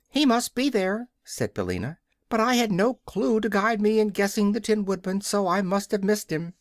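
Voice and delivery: high, clucky offended hen; a proud hen defending her eggs. A narrator's reading. Billina the hen defends her eggs to the King, high and offended.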